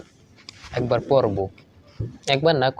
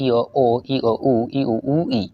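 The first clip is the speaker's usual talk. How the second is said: syllable-by-syllable recitation, evenly spaced; reading drill. Shown as a demonstration. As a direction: read out the syllable chart in a steady rhythm. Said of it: "একই রকম হবে". (বানান পড়ার মতো ছন্দে ছন্দে পড়া)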